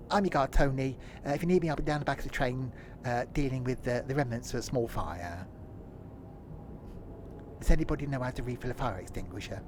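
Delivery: lightly voiced guard on the tannoy; train guard announcement. Tony the guard welcomes passengers aboard, mock announcement.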